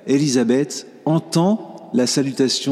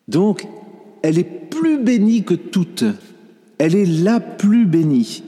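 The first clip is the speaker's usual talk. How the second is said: much higher, insistent; fervent emphasis; 6 semitones higher than usual. Real, not acted. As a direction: proclaim it with rising fervor. Preacher exclaiming Mary's blessedness.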